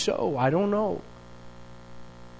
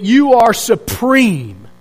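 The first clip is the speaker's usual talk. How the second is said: imitated cry of praise. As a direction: proclaim it with weight, drawing out key words. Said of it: "what it was like".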